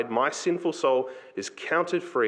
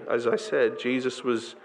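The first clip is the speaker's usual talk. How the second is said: ordinary delivery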